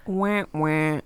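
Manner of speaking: mock crying. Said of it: "they make millions of dollars".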